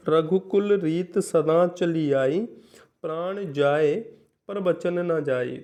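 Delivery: slow, measured verse reading; slow classroom recital of a poem; poem recitation. Shown as a demonstration. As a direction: recite the couplet line by line. Reads a poem example slowly.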